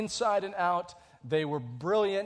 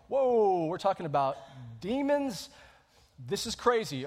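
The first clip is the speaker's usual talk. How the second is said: mock alarm. Pastor voicing a startled church newcomer, mock alarm. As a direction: imitate a startled newcomer's disbelief. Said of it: "you're like".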